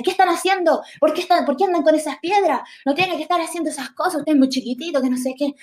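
lightly voiced mom telling the kids off; scolding mother. Mom scolding the boys with stones, in a high scolding voice.

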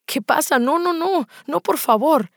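shocked, rapid string of refusals; alarmed protest. Acted. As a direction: act out a flustered plea to stop. Retold shocked reaction to kiss.

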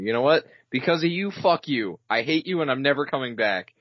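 mock yelling customer. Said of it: "yelling at an employee".

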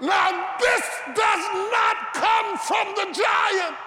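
high, shouted preaching cadence; preaching at full force. Acted. Preacher to congregation about his brother, shouting and preaching.

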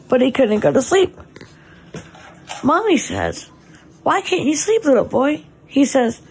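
put-on gentle storybook read to a child; bedtime story reading. Mother reading her son a bedtime story, gentle storybook voice.

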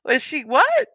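high, incredulous outburst; can't believe what mom just said; girl reacting to her mother refusing to come; stunned disbelief. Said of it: "And I was like".

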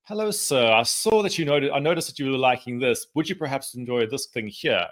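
a hint of an oily, fawning butler; creepy butler. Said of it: "It's like this creepy butler who stands behind you and says".

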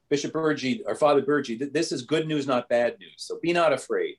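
imitated Italian nuncio bearing good news; Italian accent. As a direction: reassure in a put-on Italian accent. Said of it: "a man with a heavy Italian accent".

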